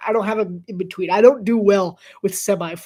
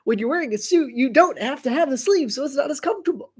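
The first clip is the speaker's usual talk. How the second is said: commercial guy; 5 semitones higher than usual. Retold or imitated. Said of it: "he's like".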